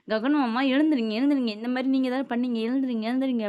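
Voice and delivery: lightly acted indignant rousing; retold urgent calling out; insistent wake-up call. Acting out waking the uncle, accusing.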